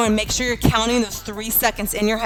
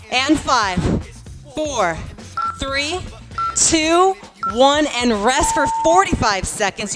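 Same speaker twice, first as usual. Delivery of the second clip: countdown shout; 4 semitones higher, slower than usual. Real, not acted. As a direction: call the finish.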